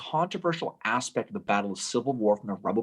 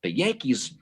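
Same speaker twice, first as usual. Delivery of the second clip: slow, sheepish confession trailing lower; rueful admission; 5 semitones lower, slower than usual. Retold or imitated. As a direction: admit it slowly like a beaten general. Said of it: "he admits afterwards".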